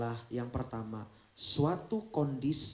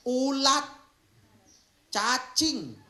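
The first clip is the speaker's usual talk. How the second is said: disgusted; 11 semitones higher, 6 dB louder, much slower than usual. Acted. Describing worms in hell.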